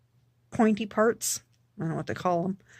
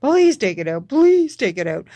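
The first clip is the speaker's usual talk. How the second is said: retold pleading; 7 dB louder than usual. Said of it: "I just bawled my eyes out".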